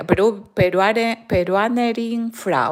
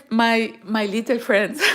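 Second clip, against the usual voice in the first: laughing; 3 semitones higher than usual. Real, not acted. Laughing greeting to viewers.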